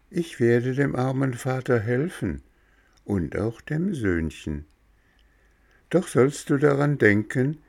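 a tiny creature giving friendly directions; cricket voice. Acted. Cricket tells visitors how to open door, high little voice.

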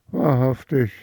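put-on the older daughter scoffs at her mother; haughty scoff. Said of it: "antwortete die Ältere".

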